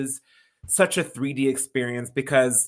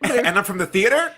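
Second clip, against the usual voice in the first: put-on British accent; 7 semitones higher, 7 dB louder, faster than usual. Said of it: "do not do a British accent".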